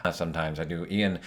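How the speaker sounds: halting delivery full of ums; lightly imitated hesitant, stammering speaker; Ian Malcolm. Shown as a demonstration. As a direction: stumble lightly through the sentence. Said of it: "stumbling through his sentences".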